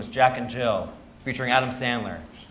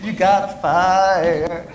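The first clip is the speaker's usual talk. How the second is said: slow beeping alarm voice; smoke detector impression; 4 semitones higher, 6 dB louder, much slower than usual. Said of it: "Is that your smoke detector impression?".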